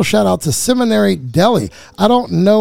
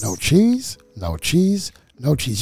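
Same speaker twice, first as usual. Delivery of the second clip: "No cheese" three times as separate beats, each lower; insistent triple repeat; 3 semitones lower, 3 dB quieter, slower than usual. Shown as a demonstration. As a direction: hammer home "No cheese", stepping down to a final fall. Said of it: "You gotta say it three times".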